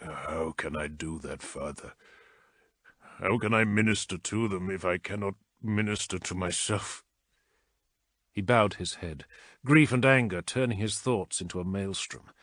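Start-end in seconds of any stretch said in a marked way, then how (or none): 0.0-7.0 despairing plea. A narrator's reading. Despairing plea to his father.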